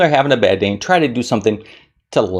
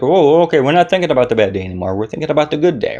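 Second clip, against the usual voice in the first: quick, higher chirpy inner voice; playful voice of the brain switching gears; brain's voice; 4 semitones higher, faster than usual. Pretend. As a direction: voice your brain catching on, quickly. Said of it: "will be like".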